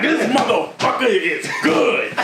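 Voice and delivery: high, slow mock outrage; mock mad. Retelling a rapper's interview blowup, mock mad. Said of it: "He was so mad, yo".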